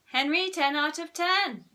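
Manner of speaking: high, loud praise; imagined teacher's lavish approval; gushing teacher. A narrator's reading. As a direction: declare top marks in admiration.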